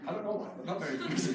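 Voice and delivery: quick line dissolving into a laugh; chuckling about the dark poems. Real, not acted. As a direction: laugh it off, a bit embarrassed. Laughing at own gloomy poems.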